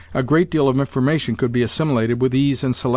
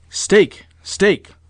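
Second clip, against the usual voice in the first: high, urgent one-word commands; insistent, higher-pitched repeat; impatient order; 7 semitones higher, 5 dB louder than usual. A narrator's reading. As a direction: urge him to bet at once. Impatient grandmother orders a bet.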